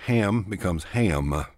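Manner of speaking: "ham" stretched into three syllables, "ha-a-am"; Texas triphthong. Shown as a demonstration. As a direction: drawl "ham" long and sliding. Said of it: "squeeze three into one".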